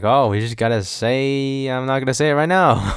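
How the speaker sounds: mocking. Podcaster imitating Tarantino itching to say a word, mocking. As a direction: parody someone itching to say it.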